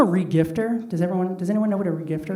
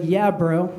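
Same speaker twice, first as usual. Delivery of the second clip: bro voice. Retold or imitated. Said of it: "They talk like that".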